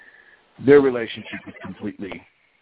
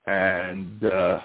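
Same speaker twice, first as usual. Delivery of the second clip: ordinary delivery, nothing marked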